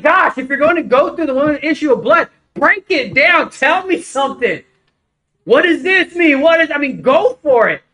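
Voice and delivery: frustrated challenge. Retold or imitated. Retold demand to preacher.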